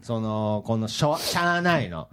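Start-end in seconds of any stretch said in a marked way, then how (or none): 1.2-1.9 "しゃーない" with a long "shaa"; Nagoya-dialect "しゃーない", said shaa-nai. Real, not acted. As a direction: stretch the first vowel of "しゃーない" as shaa. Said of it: "名古屋弁？".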